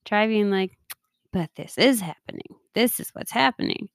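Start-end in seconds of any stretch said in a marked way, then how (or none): 1.3-3.9 gently amused acceptance; kind, tongue-in-cheek. Shown as a demonstration. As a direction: say it kindly with a wink. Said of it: "in a kind and, kind of, like, funny, tongue-in-cheek kind of way".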